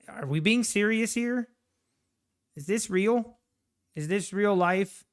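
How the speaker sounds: high, disbelieving questions; is this actually happening; incredulous. Real, not acted. Disbelief at market.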